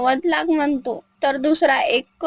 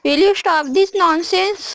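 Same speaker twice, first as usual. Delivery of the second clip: angry; 4 semitones higher, much slower than usual. A narrator's reading. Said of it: "खूप चिडून जाते".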